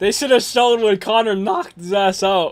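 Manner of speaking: breaking, cracking voice, cracks mid-line. Saying what should have been shown in the clip: voice cracking. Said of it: "my voice cracked".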